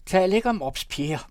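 high, loud falsetto interruption. A narrator's reading. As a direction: cut in with a high-pitched cry. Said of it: "med sin fistelstemme".

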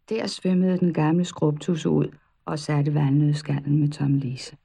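plain reading voice

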